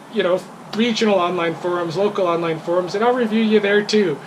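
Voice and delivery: retold angry vow to the owner's wife; frustrated threat. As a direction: threaten the bad review, worked up. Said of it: "I was in my frustrated state of mind".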